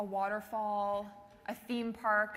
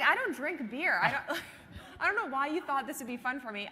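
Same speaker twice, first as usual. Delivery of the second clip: higher and louder, laughing through the words; laughing protest; 5 semitones higher, 4 dB louder than usual. Retold or imitated. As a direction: protest while cracking up. Retold protest to boyfriend, laughing.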